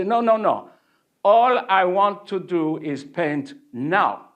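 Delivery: stubborn student insisting he just wants to paint; insistent protest. Retold or imitated. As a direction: push back hard on the master.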